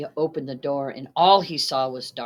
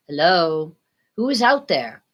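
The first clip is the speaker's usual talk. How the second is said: a nervous call into the night; 2 semitones higher, 7 dB louder than usual. Acted. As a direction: shout out to whoever is there. Narrator calls out into darkness.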